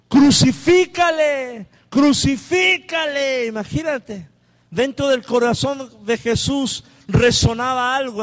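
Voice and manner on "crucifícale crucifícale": slow, drawn-out mock crowd cry; crowd shouting. Preacher voicing the crowd demanding crucifixion, slow shouting. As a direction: call it out like an angry mob. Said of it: "volvieron a dar voces diciendo".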